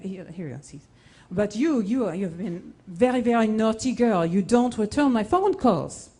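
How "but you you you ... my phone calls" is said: teasing producer. Retold or imitated. Producer scolding her in story.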